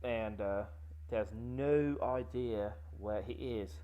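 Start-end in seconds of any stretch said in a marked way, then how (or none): 1.1-3.7 slow mock British accent. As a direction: slip into a posh British voice. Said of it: "Why did you go British on me?".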